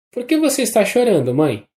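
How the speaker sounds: put-on high, fast, a child's tearful question; tearful child's cry. A narrator's reading. Little boy to his crying mother, tearful high cry. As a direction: cry out like a small boy about to weep. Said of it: "gritou ele com a voz chorosa".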